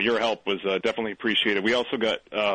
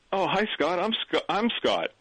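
stammering intro; 7 semitones higher than usual. Retold or imitated. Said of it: "And I stammered like that".

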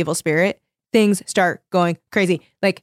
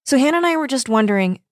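lightly chirpy, higher and quicker; bright friend, pitched up and brisk; 6 semitones higher, faster than usual. A narrator's reading. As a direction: read it as a breezy, bright phone chat. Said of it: "Kimmy continued brightly".

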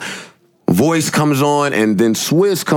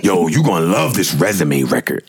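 friend hyped; 5 semitones lower than usual. Retold or imitated. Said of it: "it's me".

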